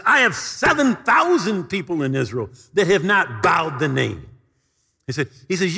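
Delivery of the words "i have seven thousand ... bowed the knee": stern rebuke. Acted. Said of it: "pretty much slapped his face and says".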